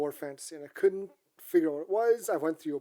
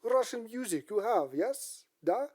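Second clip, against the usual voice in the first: put-on Russian accent; 4 semitones higher, 4 dB quieter, slower than usual. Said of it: "he had a very thick Russian accent".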